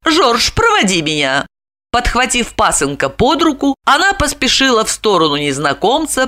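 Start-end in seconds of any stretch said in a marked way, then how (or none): 0.0-1.5 high, bright-pitched society lady excusing herself; Olga exclaiming. A narrator's reading. Olga excusing herself to join her husband, exclaiming high. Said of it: "Ольга воскликнула".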